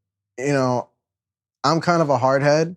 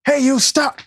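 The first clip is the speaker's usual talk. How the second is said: high, cracking shout; 11 semitones higher, 3 dB louder than usual. Retold or imitated. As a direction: let the voice crack on it. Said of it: "my voice cracks".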